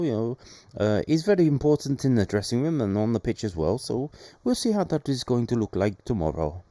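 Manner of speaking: light mock Swedish accent, manager's press talk; lightly put-on Swedish accent; the speaker's Swedish accent. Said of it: "that was my Swedish accent there".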